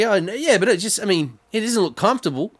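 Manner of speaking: high mock doubtful voice. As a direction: hesitate then insist gently. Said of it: "he's like".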